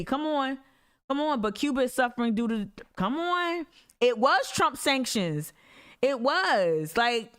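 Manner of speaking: high-pitched, exasperated protest; exasperated insistence. Real, not acted. Disbelieving protest about Trump sanctions.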